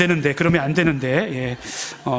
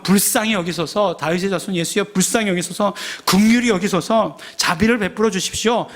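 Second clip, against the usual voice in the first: mock crying out; 3 semitones higher than usual. Blind beggar calling to Jesus, imitated crying out. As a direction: imitate someone calling out repeatedly for mercy. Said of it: "막 이렇게 외쳤습니다".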